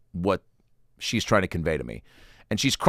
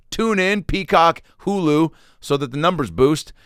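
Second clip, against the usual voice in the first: high, eager sales pitch; excited plug; 8 semitones higher, 4 dB louder than usual. Real, not acted. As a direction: pump up the show like an ad. Plugging his show to listeners.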